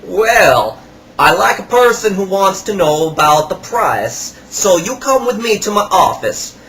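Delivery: eager seller steering him to the till; imitating the salesman. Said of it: "So he goes".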